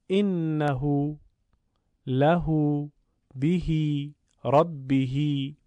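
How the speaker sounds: final vowels of «انه», «له», «به», «ربه» drawn out to long u or i; slight lengthening. Shown as a demonstration. Teacher giving textbook examples, slight lengthening.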